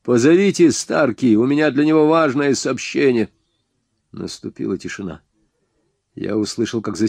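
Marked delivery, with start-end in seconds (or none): 0.0-3.3 shouting. Acted. Hero shouting to the gunmen.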